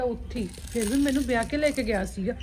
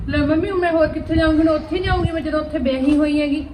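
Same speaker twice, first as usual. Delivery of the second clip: heated protest; 3 semitones higher, 6 dB louder than usual. Acted. Daughter argues back with mother.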